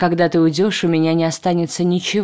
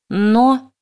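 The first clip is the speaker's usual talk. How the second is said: indignant; 5 semitones higher than usual. Acted. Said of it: "возмутилась я".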